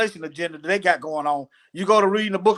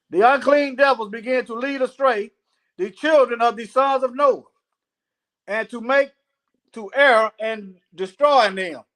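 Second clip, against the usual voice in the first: raised, deliberate reading voice; scripture reading; 3 semitones higher than usual. Acted. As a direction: read it out phrase by phrase. Reads scripture aloud.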